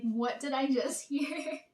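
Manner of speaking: slow, laughing through the question; can barely get it out for laughing; real laughter breaking into the words. Real, not acted. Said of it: "I couldn't stop laughing".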